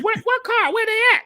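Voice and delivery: very high, incredulous squawk; retold bewilderment, voice leaping up; baffled disbelief. Drummer asks friend where the car is, comically incredulous.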